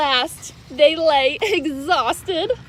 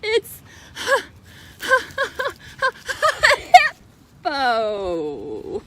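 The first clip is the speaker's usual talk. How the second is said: laughing admission; much slower than usual. Acted. The rhinoceros confessing his name to Fluffy, laughing. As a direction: giggle out the silly name.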